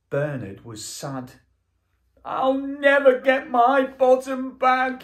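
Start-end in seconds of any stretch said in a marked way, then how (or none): 2.2-5.0 high, whimpering robot voice; a hammed-up little sob; lightly sobbing robot wail; mock sob. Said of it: "he sobbed".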